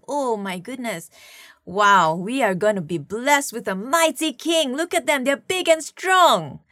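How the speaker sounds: impressed, excited. Retold or imitated. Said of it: "and he's like".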